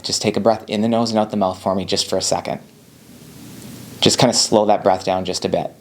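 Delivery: calm, reassuring voice, asking for one breath; calm, steady guiding. Shown as a demonstration. Helper on the phone to an anxious caller, calm and reassuring. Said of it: "what I'm doing here is I'm just having them breathe".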